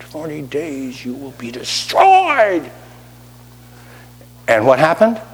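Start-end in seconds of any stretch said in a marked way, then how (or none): 0.0-2.7 slow, softer begrudging mutter. Retold or imitated. Jonah muttering his hateful sermon to Nineveh, slow and begrudging. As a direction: spit it out like you resent every word. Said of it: "bitter, begrudging, ugly, hateful kind of word".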